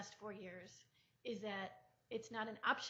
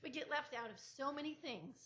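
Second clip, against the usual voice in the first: getting emotional; 4 semitones higher than usual. Real, not acted. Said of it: "I'm getting emotional here".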